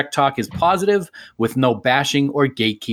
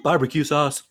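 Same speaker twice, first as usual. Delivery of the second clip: silly random blurt; 3 semitones higher than usual. Pretend. Random blurt after jingle.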